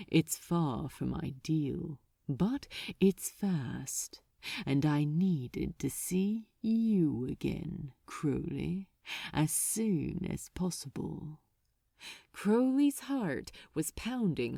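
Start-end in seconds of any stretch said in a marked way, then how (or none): 0.1-11.4 a hint of a silky, pleased archdemon, a little lower; lightly voiced archdemon, lower. Archdemon relishing his method to Crowley, lightly voiced lower. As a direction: voice him low and smug without pushing.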